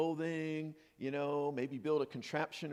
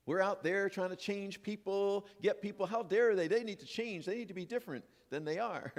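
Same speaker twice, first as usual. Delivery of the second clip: raised, huffy complaining about others; mock indignation; 4 semitones higher than usual. Mocking people who want others to change, in mock indignation. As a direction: play the self-righteous blamer.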